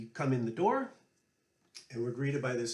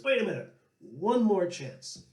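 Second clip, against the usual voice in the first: higher and louder, slowing on one more chance; pleading Paddy; 5 semitones higher, 5 dB louder than usual. Retold or imitated. Paddy asking Johnny for one last tune, playful plea. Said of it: "And so Paddy says".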